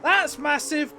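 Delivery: loud, high crash call; motorsport commentator. Real, not acted. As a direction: repeat it with full hype.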